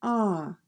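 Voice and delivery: "ah" as an open back ɑ, learner's habit; "ah" as in father, not cat; wrong ah vowel. Shown as a demonstration. Teacher showing the learners' mistaken A. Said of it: "you pronounce it".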